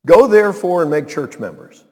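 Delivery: wrong version said with scorn; mock misquote. Shown as a demonstration. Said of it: "Is that what he said?".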